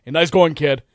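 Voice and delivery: mock snide jab; snide, sarcastic. Manager to a struggling player back in the dugout, snide sarcasm. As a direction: retell it as a dry sarcastic dig. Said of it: "makes the snide, sarcastic remark".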